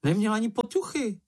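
high, squeaky little-creature voice, lightly cried out; a hint of an indignant small animal calling out; Sniff's high voice, a touch exclaimed; exclaiming Sniff. A narrator's reading. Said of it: "vykřikl Čenich".

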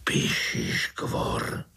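slow frightened whisper. Acted. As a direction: breathe the name out in fear. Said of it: "zašeptal strýček".

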